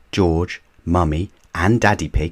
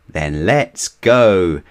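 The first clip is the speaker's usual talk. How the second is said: shouting; 5 dB louder, much slower than usual. Acted. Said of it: "shouted Daddy Pig".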